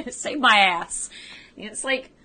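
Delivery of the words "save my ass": mock shout breaking into laughter; louder, pleading mock yell with laughs; imitated yell. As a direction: yell it as a comic desperate plea. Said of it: "he yells out".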